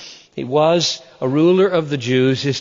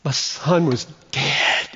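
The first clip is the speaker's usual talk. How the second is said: tender father; slower than usual. Retold or imitated. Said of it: "He says".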